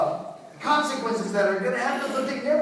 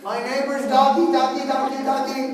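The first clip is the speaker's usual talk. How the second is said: calling a dog; 3 semitones higher, 6 dB louder than usual. Retold or imitated. Man outside at night to neighbor's dog, loud calling. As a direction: holler for the doggy on a level note.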